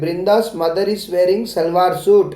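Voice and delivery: very slow, deliberate reading; teacher dictating a model sentence slowly. Shown as a demonstration. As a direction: spell the sentence out slowly for children. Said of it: "तो आप ऐसे भी बोल सकते हैं".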